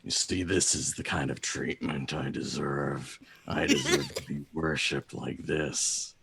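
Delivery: lightly voiced self-important raven; Agfa. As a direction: lay claim to worship as a proud bird. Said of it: "looks back to Valka and goes".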